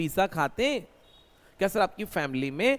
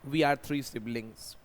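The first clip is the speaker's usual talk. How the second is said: very slow translation; slow dictation; 4 semitones lower, much slower than usual. Shown as a demonstration. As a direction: say each word apart for learners. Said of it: "हम तीन भाई बहन हैं". (धीरे अनुवाद)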